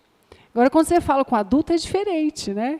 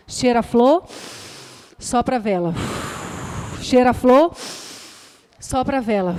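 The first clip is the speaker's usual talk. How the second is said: calm breathing demo. Shown as a demonstration. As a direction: lift on flor, let sopra fall like a breath out. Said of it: "vai ensinar de uma maneira lúdica". (demonstração calma de respiração, pausada)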